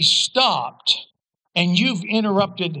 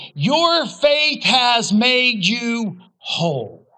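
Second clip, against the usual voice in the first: slow, weighty blessing; much slower than usual. Acted. Jesus to the healed woman, slow and weighty. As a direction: say each word slowly and deliberately.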